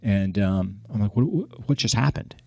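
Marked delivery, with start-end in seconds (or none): 1.2-2.4 higher-pitched, stammered bafflement; retold disbelief. Man reacting to the ferry fare, baffled. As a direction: stumble into a baffled question.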